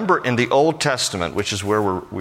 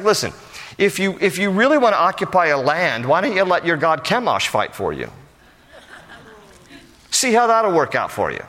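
mocking dare, pitched up and pointed; sarcastic; 5 semitones higher than usual. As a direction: taunt them about their god. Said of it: "this little sarcasm here".

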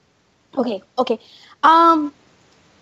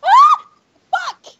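high shrieking scream; 14 semitones higher, 10 dB louder than usual. Real, not acted. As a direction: scream as you get caught. Killed in game.

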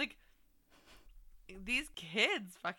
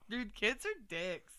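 stifled giggles. Real, not acted. After laughing at the nicknames.

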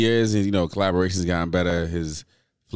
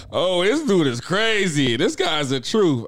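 slow, higher, hammed-up gushing fan; imitating a starstruck fan; mock rapper fan; 9 semitones higher, slower than usual. Mocking how a rapper's fans rave, hammed-up fan voice. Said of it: "a rapper's fans out there like".

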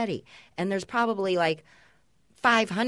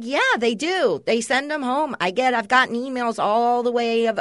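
chirpy school mom; 4 semitones higher than usual. Retold or imitated. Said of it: "I'm like".

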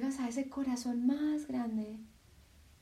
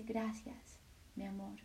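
softer, tender voice of the heart; the heart speaking; 7 dB quieter than usual. Acted. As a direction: speak as a loving heart comforting. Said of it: "tu corazón simplemente te dice". (el corazón habla, suave y tierno)

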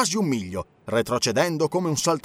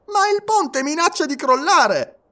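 high, slow, urgent protest; alarmed objection; 13 semitones higher, 4 dB louder, slower than usual. A narrator's reading. Conductor warning that the bridge may collapse, alarmed. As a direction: warn them in a high, insistent voice.

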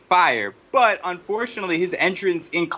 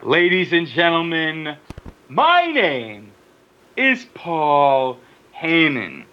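Paul Heyman impression; slower than usual. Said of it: "throwing this one at us".

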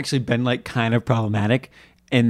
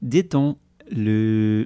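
French accent; slower than usual. Shown as a demonstration. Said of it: "Let's see if I can do that in French".

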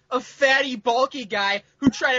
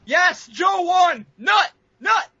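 excited cheer; 5 semitones higher, 5 dB louder, much slower than usual. Real, not acted.

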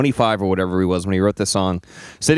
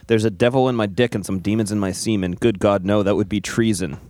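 deadpan reading. Pretend. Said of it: "read them in your deadpan voice".

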